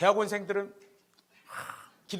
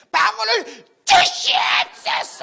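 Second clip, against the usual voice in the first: slow, high, loud shouted plea; shouted prayer; 14 dB louder, much slower than usual. Retold or imitated. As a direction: bellow the plea right in his face. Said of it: "제가 외쳤어요 목소리 큰 소리로". (총장님 코앞에서 느리고 높게 외치는 간청)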